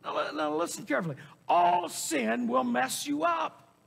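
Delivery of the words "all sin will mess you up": raised, drawn-out warning; emphatic preaching. Real, not acted. Preacher warning the congregation, emphatic. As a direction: preach it as one connected, forceful line.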